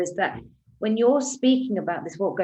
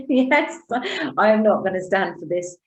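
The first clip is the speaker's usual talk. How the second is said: defiant declaration; 4 dB louder than usual. Retold or imitated. Retelling taking a stand.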